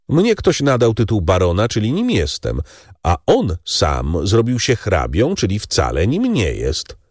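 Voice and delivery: a lightly voiced scornful baron; Danglars, scornful baron. Baron mocks Morcerf's title to Monte Cristo, lightly voiced. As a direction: sneer at the self-made count.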